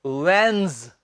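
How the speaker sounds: वेंस as one low, falling WENZ, silent D; correct first syllable. Shown as a demonstration. Teacher drills वेंस for students, low careful wenz without D. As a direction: stretch वेंस into a rounded wenz. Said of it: "डी नहीं बोलनी".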